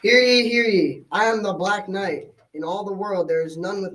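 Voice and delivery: proclaiming challenger. Acted. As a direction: call it out like a herald to the whole court.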